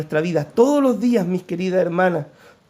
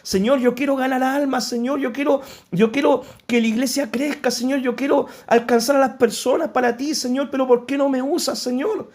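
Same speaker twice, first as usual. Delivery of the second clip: pleading, pitched up, a hint of tears; retold tearful prayer; 5 semitones higher than usual. Pastor recalling his prayers to the Lord, mild tearful plea. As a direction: relive crying out to God, lightly. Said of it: "le decía llorando al Señor".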